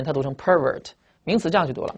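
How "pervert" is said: pervert stressed on its first syllable; noun stress on pervert. Shown as a demonstration. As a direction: say pervert as the noun, PER-vert. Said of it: "名词的时候注意它的读音".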